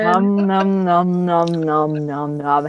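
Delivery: playful chomping sounds; nom nom chomping. Pretend. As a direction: chant nom nom like eating. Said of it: "that actually hurts my ears 'cause it's, like, really high pitched".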